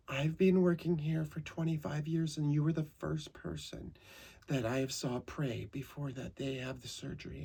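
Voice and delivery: a gentle older nurse, lightly voiced; imitating the nurse. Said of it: "and she goes".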